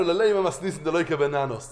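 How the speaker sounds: measured, invested retelling of a troubling passage; mildly troubled quote; pained, involved. Retold or imitated. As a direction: take the passage personally, unhurried. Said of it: "זה כאב לנו".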